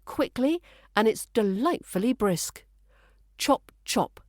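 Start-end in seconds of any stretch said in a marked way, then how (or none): 3.4-4.2 "Chop chop" with both ch sounds crisp and identical; two matching, crisp ch's in "Chop chop". Shown as a demonstration. Teacher modelling "Chop chop", both ch sounds crisp and identical. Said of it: "Keep both those ch sounds crisp and identical".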